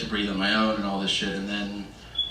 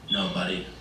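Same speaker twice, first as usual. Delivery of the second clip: quietly disappointed dad; 5 semitones lower, 6 dB quieter than usual. Retold or imitated. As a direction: imitate a father's quiet letdown. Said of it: "my dad reads it and he goes".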